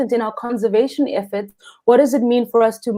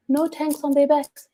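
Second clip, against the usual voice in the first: amazed disbelief; 5 semitones higher than usual. Real, not acted. Amazed at free divers.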